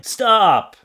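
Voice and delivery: sharp loud STOP; shouted stop. Pretend. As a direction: bark it like a warning sign. Reading sign aloud, shouting.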